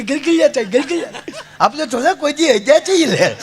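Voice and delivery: high, giggly comic voice; high-pitched silly excuse; mock ticklish groom. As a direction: imitate someone squirming from tickles. Imitates ticklish groom explaining himself.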